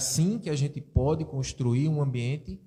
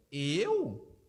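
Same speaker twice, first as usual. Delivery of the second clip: sulky denial; 3 dB quieter, slower than usual. Acted. Acted sulky reply in dialogue.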